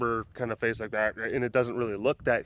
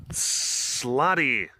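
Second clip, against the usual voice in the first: put-on Irish accent. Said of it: "if you were, like, really Irish".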